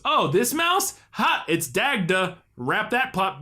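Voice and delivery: lightly voiced chirpy mouse, a high bright start; mildly hammed-up cheerful mouse; breezy mouse reply. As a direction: toss it off like a carefree cartoon mouse. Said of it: "He goes".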